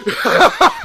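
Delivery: quick high giggle before the taunt; a giddy villain's chuckle; short gleeful laugh. Acted. Joker gloats before his demand.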